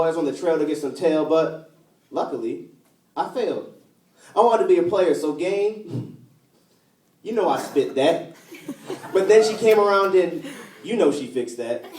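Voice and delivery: rhythmic poetry recital with held line endings; spoken-word poem. Acted. Reciting a love poem about a recovering addict, spoken-word style. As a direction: deliver it like a slam poet.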